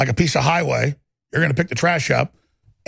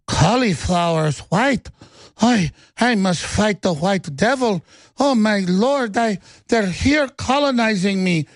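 mock paranoid rant; 4 semitones higher, slower than usual. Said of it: "it's like".

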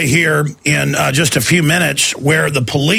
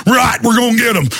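mock redneck shout; 4 semitones higher than usual. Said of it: "all these rednecks going".

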